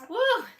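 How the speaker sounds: high happy whoop; excited woo. Real, not acted. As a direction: let out a real cheer of joy. Excited cheer over the event.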